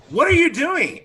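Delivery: high, loud shocked cry; shocked outrage. Acted. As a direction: cry out in disbelief at the attacker. Shocked guard after attack.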